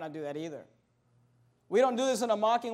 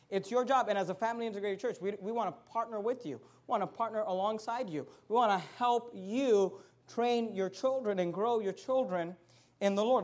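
soft sincere appeal; 6 dB quieter than usual. Acted.

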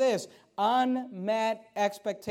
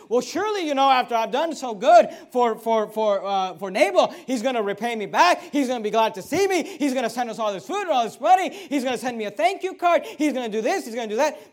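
preacher voicing David's hopeful expectations, louder; David's eager hopes; 3 semitones higher, 6 dB louder than usual. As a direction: play David sure he'll be rewarded, louder. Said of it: "He said".

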